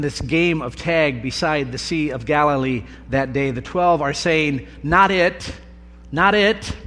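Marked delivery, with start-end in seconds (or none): 4.8-6.8 higher, louder playground "not it" calls; kids dodging tag. Retold or imitated. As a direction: call it out like children ducking being it.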